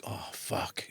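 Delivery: soft, low dismayed aside; inner thought. Retold or imitated. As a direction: sink to an under-the-breath curse. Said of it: "In my mind, I'm saying".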